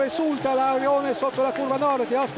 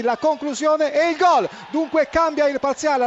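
excited goal call; 4 semitones higher, 4 dB louder than usual. Real, not acted. Penalty scored, goal call.

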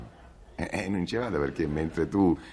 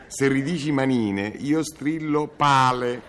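shouted high and loud, slowing at the end; 7 semitones higher, 6 dB louder, slower than usual. Acted. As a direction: yell it out as a threat. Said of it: "te sbugiardo a voce alta".

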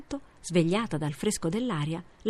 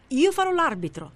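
higher, louder squeaky mouse voice; old grey mouse; 10 semitones higher, 5 dB louder than usual. A narrator's reading. Old mouse offers to referee the race, squeaky and high. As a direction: pipe up as the little referee. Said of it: "disse un vecchio topo grigio".

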